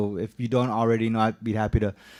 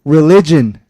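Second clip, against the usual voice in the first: "religion" punched loudest, higher; emphasis added; 3 semitones higher, 12 dB louder than usual. Real, not acted. Speaker reading a quote to the board, stressing the word hard. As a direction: slam the word "religion" alone. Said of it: "emphasis added".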